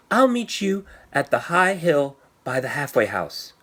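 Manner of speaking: a hint of an eager little girl. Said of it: "said Stephanie".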